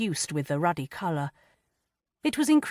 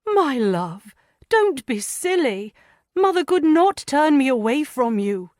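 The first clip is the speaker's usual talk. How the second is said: gentle husband; 9 semitones higher, 5 dB louder than usual. A narrator's reading. Husband comforts weeping wife.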